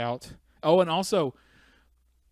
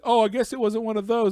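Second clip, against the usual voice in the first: higher, louder ditzy voice; airhead clerk voice; 9 semitones higher, 8 dB louder than usual. Retold or imitated. Cashier admitting the mistake, ditzy. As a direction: shrug it off like an airhead. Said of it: "she's like".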